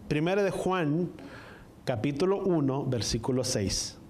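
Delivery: careful citation broken by pauses; más despacio, slowed down. Real, not acted. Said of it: "Más despacio para que me puedan entender".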